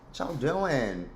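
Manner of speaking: slow drawled Southern greeting, lightly voiced; Leslie Jordan impression. Greeting her viewers in Leslie Jordan's voice, slow and drawled. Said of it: "In the words of Leslie Jordan".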